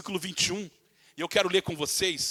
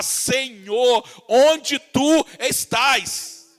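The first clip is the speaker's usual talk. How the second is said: anguished cry; 3 semitones higher, 5 dB louder, much slower than usual. Retold or imitated. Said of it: "Você clamar".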